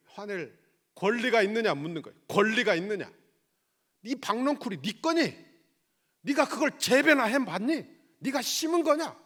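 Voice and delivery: loud, high challenging questions from the pulpit; forceful preaching. Real, not acted. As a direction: fire the questions at them, punching key words. (높고 큰 목소리로 따져 묻듯 설교)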